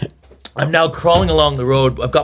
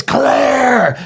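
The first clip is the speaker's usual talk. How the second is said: shouted county name; 10 semitones higher than usual. Retold or imitated. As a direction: shout it back across the pub. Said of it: "he goes, he goes".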